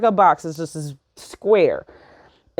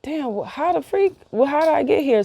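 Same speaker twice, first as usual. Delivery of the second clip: retold freak-out; 7 semitones higher than usual. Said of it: "I'm, like, freaking out".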